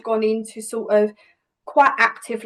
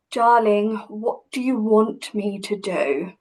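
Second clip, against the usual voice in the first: slow, condescending put-down; a touch of mock condescension; patronising; 2 semitones lower than usual. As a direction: talk down to her like she's a child. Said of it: "a very patronising, very belittling".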